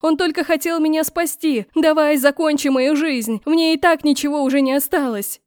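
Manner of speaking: a desperate outcry to spare her brother; desperate plea. A narrator's reading. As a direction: beg him with everything, near hysteria. Begging him to kill her instead.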